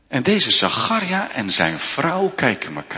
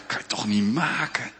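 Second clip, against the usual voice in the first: whispered, softer protest to her husband; hushed objection; 4 semitones lower, 7 dB quieter than usual. Acted. Wife whispers her objection to Zacharia. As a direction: keep it down, they're asleep.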